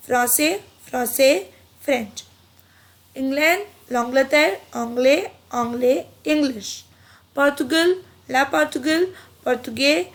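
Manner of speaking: careful word-by-word repetition drill; pronunciation drill. Shown as a demonstration. Teacher repeating French country names for students. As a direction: drill each name as a list for learners. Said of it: "pronunciation repeat कर देती हूँ".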